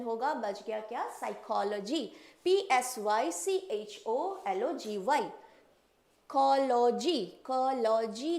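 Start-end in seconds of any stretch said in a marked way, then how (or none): 2.4-5.3 letter by letter spelling; spelled out. Shown as a demonstration. Teacher spelling the word for the class. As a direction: spell it out clearly. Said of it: "spelling psychology".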